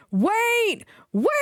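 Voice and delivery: high tooting cry; tooting call. A narrator's reading. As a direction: call out like a horn. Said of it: "he tooted".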